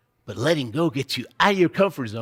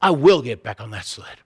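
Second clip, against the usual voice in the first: resolute self-talk; 4 semitones lower than usual. Acted. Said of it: "And I say to myself".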